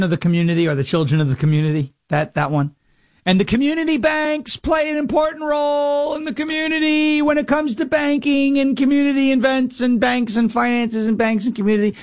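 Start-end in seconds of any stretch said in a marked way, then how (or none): 3.2-12.0 high rambling mock speech; mocking Kamala word salad. Host mocking Kamala's word salad, high rambling impression. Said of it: "Remember the old".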